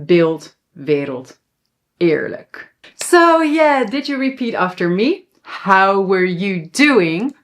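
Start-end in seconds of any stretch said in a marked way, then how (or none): 0.1-2.8 BEELD, WERELD, EERLIJK with E between ay and ih. Shown as a demonstration. Teacher recaps examples, E nearer I. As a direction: say BEELD, WERELD, EERLIJK one by one, E shaded toward I. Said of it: "between a long A and more like a I".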